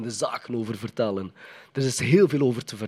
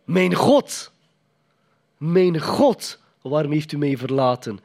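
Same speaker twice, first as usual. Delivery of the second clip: anguished cry; 3 semitones higher, 5 dB louder, slower than usual. Retold or imitated. Jesus on the cross crying out to God, anguished and raised. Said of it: "Wat riep hij?".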